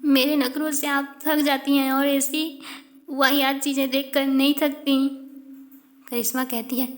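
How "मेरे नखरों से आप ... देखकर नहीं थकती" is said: acted crying. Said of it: "जय रोने लगती है".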